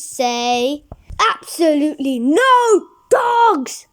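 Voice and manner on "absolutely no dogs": a loud, stern dad laying down the law; put-on dad voice, loud and final; firm parental ban. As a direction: bark the rule out like a fed-up parent. Parent's stern refusal in story.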